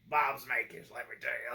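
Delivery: mock attempt at a Southern accent; bad Southern accent. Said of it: "trying to do a Southern accent".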